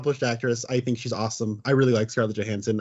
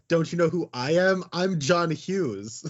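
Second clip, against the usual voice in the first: mock self-important indignation, pitched up; higher, drawn-out name drop; John Hughes; 5 semitones higher, slower than usual. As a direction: pull rank as a pretend big shot. Echoes the diva joke as director.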